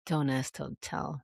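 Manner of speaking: slow, breathy mock whisper; a hushed, teasing whisper. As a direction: whisper it like a dirty secret. Mocking the policy name.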